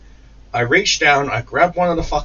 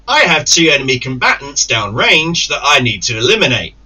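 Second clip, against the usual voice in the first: soldier voice; 3 semitones higher, 6 dB louder than usual. Retold or imitated. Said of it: "Soldier in me is like".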